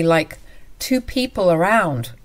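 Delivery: plain reading voice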